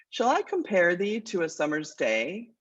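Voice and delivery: measured, unhurried reading of the sonnet's first line; poem recitation. Shown as a demonstration. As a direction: recite it as a verse, letting the line breathe. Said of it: "It goes like this".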